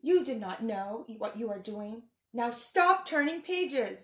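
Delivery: lightly voiced furry blue monster, fretful and pleading; Grover voice. Teacher reading the book to kids as a worried Grover. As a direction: read it as a nervous puppet monster begging the kids.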